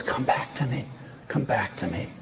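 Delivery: low, hushed appeal; tender plea. Acted. Preacher voicing God to his straying bride, tender low plea. God pleading with unfaithful wife.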